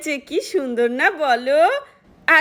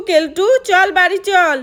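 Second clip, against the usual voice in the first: calling out; 3 semitones higher, 4 dB louder, slower than usual. Acted. Mother calls son home crossly.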